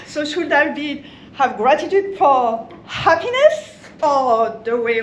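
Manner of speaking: French-accent joke, speaking through real laughter; words bubbling with giggles; laughing while talking. Real, not acted. Giggling to the group about the French-accent joke.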